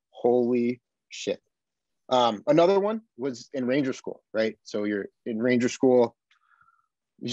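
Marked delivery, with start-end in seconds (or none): 0.1-1.4 slow, drawn-out stunned awe; awed disbelief. Retold or imitated. Veteran recalling that moment, slow awed disbelief. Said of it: "you're like".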